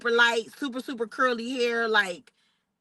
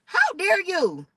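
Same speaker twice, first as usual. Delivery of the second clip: very high, slow indignant how dare you; outraged; 9 semitones higher, slower than usual. Retold or imitated. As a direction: drag out the outrage. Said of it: "I'm looking at him like".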